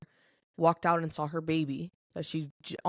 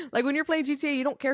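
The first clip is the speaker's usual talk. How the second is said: repeated through real laughter, higher pitch; laughing; 9 semitones higher, 7 dB louder, faster than usual. Real, not acted. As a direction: still giggling after saying sorry.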